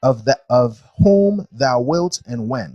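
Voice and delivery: slow, deliberate verse reading aloud; scripture reading. Acted. Teacher reading creation verses to a class, measured scripture reading. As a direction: read it out solemnly, phrase by phrase.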